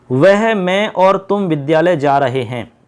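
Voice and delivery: slow, word by word, each pronoun clear; slow dictation. Shown as a demonstration. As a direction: read the example out slowly for the class. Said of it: "देखो इसमें तीनों ही पुरुष".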